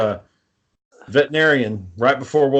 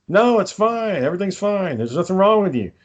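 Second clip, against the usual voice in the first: higher-pitched mock reassuring doctor; imitated doctor brushing it off; dismissive reassurance; 6 semitones higher than usual. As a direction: wave away the worry in a raised pitch. Doctors dismissing a worried patient.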